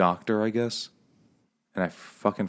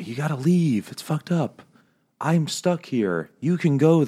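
higher mock plea; 8 semitones higher, 4 dB louder than usual. Francis voiced in retold story.

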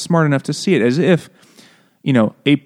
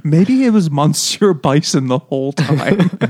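laughing; 4 semitones higher than usual. Real, not acted. Joking aside while laughing.

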